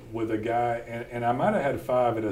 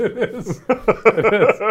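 higher, louder laughing agreement; real laughing, higher and louder; 11 semitones higher, 10 dB louder, much slower than usual. Real, not acted. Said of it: "It's easy to be humble".

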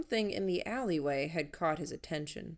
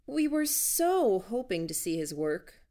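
higher gushing eagerness; sweetly overeager, laying it on; effervescent; 4 semitones higher, 3 dB louder than usual. Acted. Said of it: "practically effervescent in attitude".

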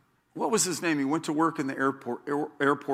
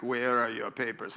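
stern official; 5 semitones lower, 6 dB quieter than usual. Retold or imitated. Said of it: "they're really into bureaucracy".

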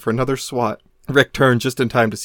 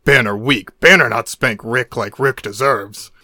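Hulk voice; 4 dB louder, slower than usual. Acted. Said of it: "the Hulk".

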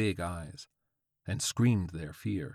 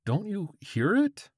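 very high, unhinged question; hesitant, lilting cackle; 13 semitones higher than usual. A narrator's reading. George questions the old man, high hesitant lilt. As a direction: lilt upward into near cackling. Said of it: "hesitation in George's voice came out".

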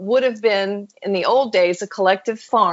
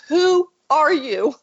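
retold amazed question; 7 semitones higher, slower than usual. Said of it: "And she goes".

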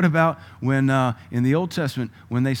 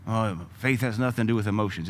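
mocking quote. Shown as a demonstration. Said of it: "Yes, it do".

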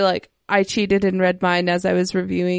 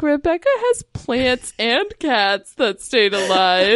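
drawn-out, rising disbelief; put-on awe, stretched out; mock amazement; 3 semitones higher, slower than usual. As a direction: marvel slowly at a friend's feat. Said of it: "And I'm like".

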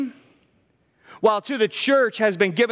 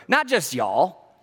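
slow Texan demo; slower than usual. Shown as a demonstration. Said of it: "The extra all is for emphasis".

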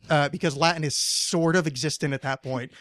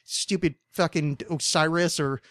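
mock rant at the pharaoh; 2 semitones higher than usual. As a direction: vent at those backwoods laughers, playfully.

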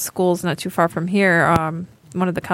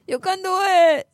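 mock cheer; 9 semitones higher than usual. Repeats the catchphrase, pitched up.

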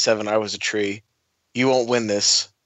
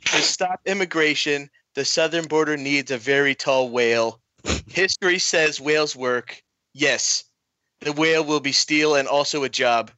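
lightly voiced Trump speech; a hint of Trump at a podium; mild mock presidential address; Trump impression. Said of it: "I'll give it a shot".

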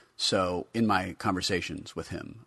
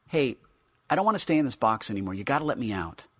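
pleading figure voice; 6 semitones higher, 5 dB louder, faster than usual. Acted.

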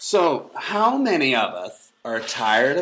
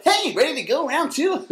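much higher, perky mock young guy; a lightly voiced young buddy, higher and bright-eyed; chipper young drinker; 5 dB louder than usual. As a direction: sound annoyingly fresh and eager. Young drinkers the next morning.

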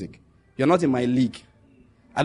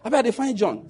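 Warri Pidgin quote; 5 semitones higher than usual. Retold or imitated. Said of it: "The guy said".

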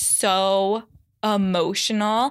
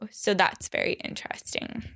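breathy whispered aside, softer; 5 dB quieter, faster than usual. Real, not acted. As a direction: drop to a whisper for a private remark. Aside after listing symptoms.

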